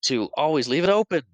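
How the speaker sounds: mock scolding, rising at the end; playful put-on exasperation; fake mad. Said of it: "he does that fake mad thing".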